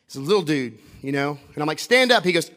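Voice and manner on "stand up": raised-voice command; calling out. Retold or imitated. Speaker telling a kid in the crowd, calling out. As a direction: call it out loudly to someone across a crowd.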